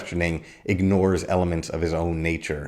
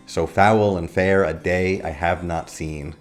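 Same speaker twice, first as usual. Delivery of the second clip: slow line with stress on "foul", "fair", "day", "not", "seen"; measured iambic beat, "So" left light and "foul" stressed. Shown as a demonstration. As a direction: lean on every second syllable, from "foul" to "seen". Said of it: "where the second syllable is stressed".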